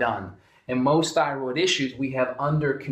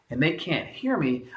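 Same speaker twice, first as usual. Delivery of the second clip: ordinary talk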